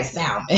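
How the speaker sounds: "salmon" as SAUL-mun, with the L; sounded L. Retold or imitated. Wife defending how half of people say it, "salmon" with the L. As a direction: say "salmon" the common way, L not silent. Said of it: "not supposed to say the L".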